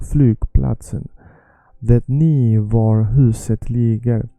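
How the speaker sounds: measured teacher readout; model sentence reading. Shown as a demonstration. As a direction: read each phrase out clearly for learners.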